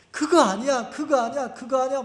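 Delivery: quick, high-pitched repeated denial; denying inner voice. Retold or imitated. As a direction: protest it over and over like a voice inside. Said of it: "내 마음 속에서 어떤 놈이". (높은 톤으로 부정하는 속마음)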